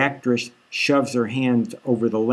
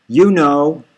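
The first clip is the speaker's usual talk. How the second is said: tearful retort; 3 semitones higher, 6 dB louder than usual. Acted. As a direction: snap back through tears. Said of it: "She's sniffling".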